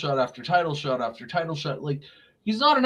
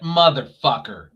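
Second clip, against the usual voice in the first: retold curse; 5 dB louder than usual. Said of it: "I, like, audibly".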